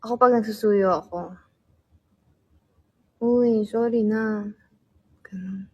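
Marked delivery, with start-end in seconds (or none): 3.2-4.4 gentle coaxing sorry. Shown as a demonstration. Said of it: "paano magsuyo si Mika Lim".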